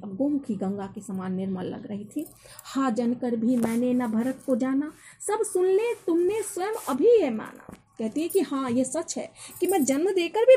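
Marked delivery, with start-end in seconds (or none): 2.6-7.8 poem recitation. Acted. Teacher reciting a Hindi poem to students, declaimed. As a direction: recite the couplet with a lifted, ringing pitch.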